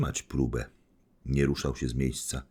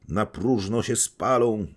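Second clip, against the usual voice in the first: higher, louder slow cry; calling out; 6 semitones higher, 5 dB louder, slower than usual. Acted. The crowd crying that the money burns in vain, loud. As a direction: call out in dismay. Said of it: "wołali dokoła".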